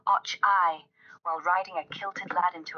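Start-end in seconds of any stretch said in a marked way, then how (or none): 0.1-0.8 louder, a quick Scottish "Och, aye"; playful Scottish-accent holler; mock Scottish yell. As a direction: shout it like a Scot in the heat of it. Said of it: "just me screaming".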